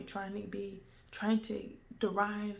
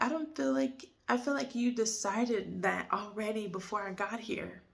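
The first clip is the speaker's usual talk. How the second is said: heated inner retort. Retold or imitated. Daughter silently answering her father, heated. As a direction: let the thought rush out hotly. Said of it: "in my spirit, I was just like".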